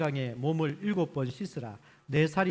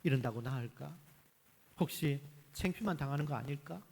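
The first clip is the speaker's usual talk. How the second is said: doubtful inner thought; 3 semitones lower, 6 dB quieter than usual. Acted. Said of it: "나아만은 속으로 생각하기를".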